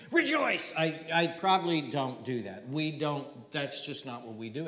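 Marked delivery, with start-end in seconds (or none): 0.1-0.7 "Rejoice" lifted high and stiff; formal rejoice. Shown as a demonstration. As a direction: say "Rejoice" like an old formal greeting. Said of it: "is there ever a time when I said".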